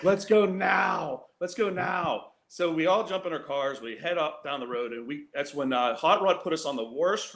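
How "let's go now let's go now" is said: slow, higher shout of let's go now; urgent shout. Retold or imitated. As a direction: yell to hurry everyone into the cars. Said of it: "And he's like".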